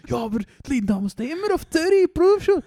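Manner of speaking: high, loud hammed-up wife's whine; the wife complaining in a cheesy reality soap, high and loud; mock bad actress. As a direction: play the terrible amateur actress, way up high. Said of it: "so schlechte Schauspieler".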